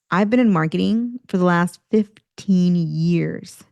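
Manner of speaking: slow and weary; reluctant statement in a job interview; bored, unhappy tone. Shown as a demonstration. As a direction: say it as if you hate this work. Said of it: "same statement with different tone".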